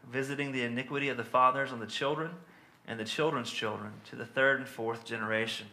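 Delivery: measured, solemn reading of a Bible passage; steady pulpit reading of scripture. Acted. Reads scripture aloud.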